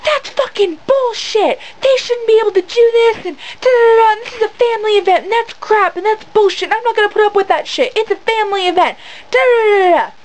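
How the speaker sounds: high-pitched imitation of an irate mom ranting; mock angry yelling. Imitating a mom outraged at a streaker, mock angry yelling. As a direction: rant like an outraged mother, hammed-up and high. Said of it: "she's, like, yelling at this guy".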